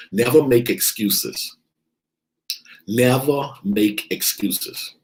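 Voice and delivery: slow stressed rule. Acted. Repeated slowly.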